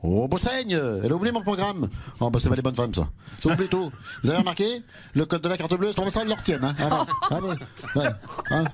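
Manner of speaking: put-on grumbling rural mayor in a thick provincial accent; provincial French accent. Village candidate rants about his programme, thick provincial French accent. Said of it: "Et en français courant".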